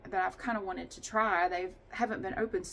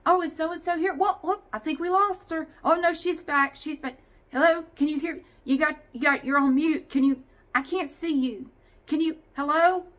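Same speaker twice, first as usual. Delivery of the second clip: higher, louder fussing meeting host; Zoom host impression; 6 semitones higher, 8 dB louder than usual. Mocking a meeting host chasing muted attendees, fussy and loud. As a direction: fret over who's on mute, loudly. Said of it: "Sitting there like".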